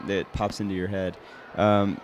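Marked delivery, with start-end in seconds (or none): 1.6-2.0 talking while chewing gum. Real, not acted. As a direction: chew gum as you ask. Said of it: "I'm chewing gum right now".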